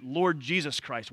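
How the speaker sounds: slow, deliberate Lord Jesus Christ; stress on whole title. Shown as a demonstration. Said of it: "that title together".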